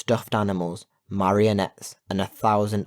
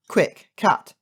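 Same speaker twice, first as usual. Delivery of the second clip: sharp, high, louder cry for help; urgent call; 11 semitones higher, 6 dB louder than usual. A narrator's reading. Child calling Kat to stop pirate, urgent. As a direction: call out fast in alarm.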